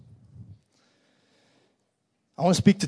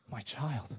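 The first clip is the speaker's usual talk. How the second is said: tender hush; 5 dB quieter, slower than usual. Acted. Father tenderly addresses his son.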